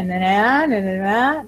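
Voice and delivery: "na, na" hummed as a lilting tune that rises; sing-song na na. Retold or imitated. Teacher humming Spanish sentence melody, "na, na" rising at the end. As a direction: hum "na, na" with a lift at the end. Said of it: "el castellano tiene".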